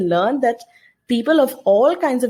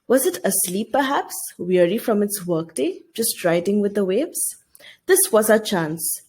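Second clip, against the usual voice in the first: lightly dramatic classroom reading; story reading. Acted. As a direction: read the passage like a storyteller to the class. Teacher reads novel passage aloud.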